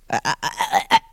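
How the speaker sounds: low creaky vocal fry on "uh". Shown as a demonstration. Lecturer showing a class creaky voice. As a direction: let each "uh" crackle in creak, low in pitch. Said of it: "creaky voice".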